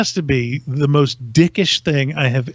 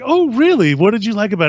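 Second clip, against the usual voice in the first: lightly imitated eager reply, pitched higher; retold perking up, higher voice; perked-up interest; 4 semitones higher, faster than usual. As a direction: play him suddenly interested and flattered. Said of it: "he really perked up".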